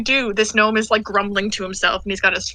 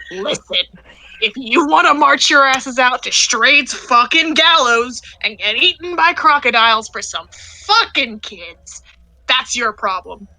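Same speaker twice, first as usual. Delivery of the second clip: gnome's threat; 2 semitones higher than usual. Acted. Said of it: "and he goes".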